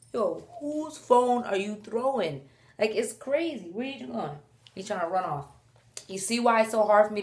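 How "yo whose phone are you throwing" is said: mock indignant. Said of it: "I'm like".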